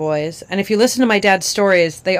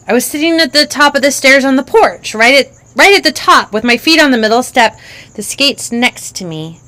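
put-on little girl voice; 6 semitones higher, 7 dB louder than usual. Child describes the porch.

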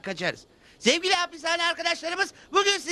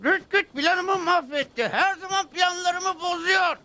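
slow, drawn-out angry shout; seething rage at the cowboy; furious outburst; 4 semitones higher, slower than usual. Acted. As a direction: bellow it out in frustration. Joe raging at ruined plan.

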